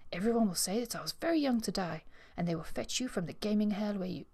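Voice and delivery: a touch of brightness as she imagines her death; lightly cheerful, picturing the scene fondly. Acted. Eustace relishes her tragic daydream, in a mildly cheerful tone. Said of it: "She continued in a more cheerful tone".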